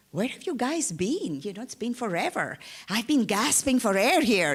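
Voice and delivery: mother reproaching son who vanished; relieved outburst. Acted. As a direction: burst out in relief. Mother greeting returning son.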